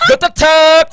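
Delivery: shouted, laughing "Go, tiltak". Retold or imitated. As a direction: yell it through laughter.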